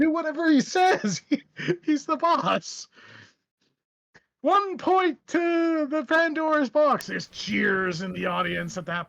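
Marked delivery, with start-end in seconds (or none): 0.0-7.1 nervous host. Acted. Host deferring to the Joker.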